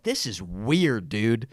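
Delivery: low, slow, quiet aside; hushed unease. Retold or imitated. Caller reacting to a strange phone menu, hushed and uneasy. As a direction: drop it low and slow, as if privately weirded out.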